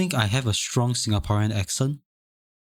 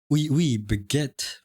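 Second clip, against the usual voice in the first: mock French accent; 3 semitones higher, much slower than usual. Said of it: "Do I just go".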